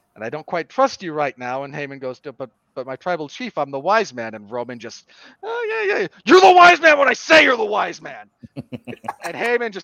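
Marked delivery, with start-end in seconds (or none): 6.3-8.3 furious yell, very loud and very high. Retelling a scene, acting out Roman snapping at Heyman, mock-angry. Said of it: "snaps at him".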